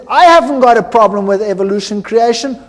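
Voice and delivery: frustrated retort. Retold or imitated. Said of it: "he was so frustrated".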